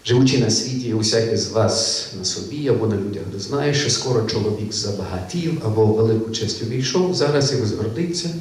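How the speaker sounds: measured reading of an old Ukrainian sermon, lightly voiced; reading a sermon excerpt. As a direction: read the old text aloud to the class.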